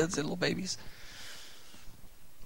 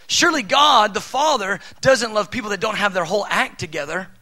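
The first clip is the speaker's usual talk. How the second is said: louder and higher, a scoffing outburst; mock outraged believer, higher and louder; mock indignant insistence; 4 semitones higher, 6 dB louder than usual. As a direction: scoff at the idea, loud. Voicing a mistaken belief.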